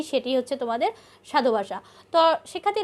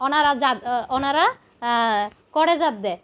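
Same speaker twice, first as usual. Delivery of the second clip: halting Chittagong Bengali example; a hesitant Chittagong accent demo; Chittagong dialect; slower than usual. Shown as a demonstration. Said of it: "চিটাংয়ের ভাষায় বলা হয়".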